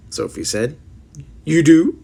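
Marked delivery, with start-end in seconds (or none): 1.4-2.0 louder, brightened cry of joy; light up and cry it out; delighted cry. A narrator's reading. Giant praised by Sophie, crying out in sudden delight. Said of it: "cried the B F G, suddenly brightening".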